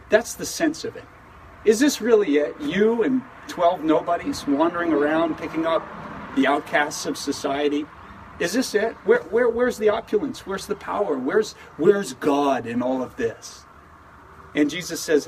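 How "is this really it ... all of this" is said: scoffing Pharisees. Retold or imitated. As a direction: sneer it like a doubting critic. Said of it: "they come scoffing, they come mocking".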